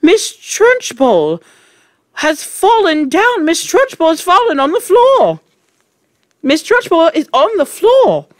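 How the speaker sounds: very high, loud schoolboy cry; shrill, excited yelling; screamed. A narrator's reading. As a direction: scream the news to the whole class.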